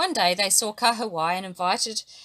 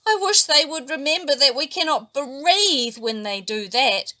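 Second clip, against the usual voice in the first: sadly; 6 semitones higher, 5 dB louder than usual. A narrator's reading. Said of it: "said Patiki sadly".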